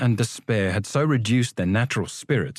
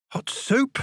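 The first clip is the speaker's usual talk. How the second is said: very high, hopeful question; light up at the thought of food; eager boy. Acted. Hungry boy hearing about prison food, eager.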